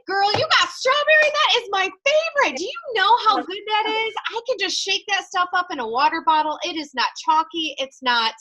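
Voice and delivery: put-on very high, bright-eyed excited girlfriend voice, fading down by the end; gushing over strawberry. Sponsor raving to Molly about her drink mix, gushing. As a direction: rave about it like it's your favorite treat. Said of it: "And I'm like".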